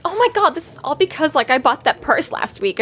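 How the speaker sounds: high, whiny valley girl mimic; mock whiny teen. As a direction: whine it like a self-absorbed teen. Mocking self-centred character.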